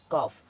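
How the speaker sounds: कॉफ ending on F, no L before it; silent L. Shown as a demonstration. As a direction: go from the vowel straight to F in कॉफ. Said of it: "आया एल silent".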